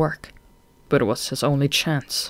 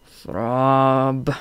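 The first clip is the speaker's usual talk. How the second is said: moaned. A narrator's reading. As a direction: call out weakly, half asleep. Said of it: "he moaned".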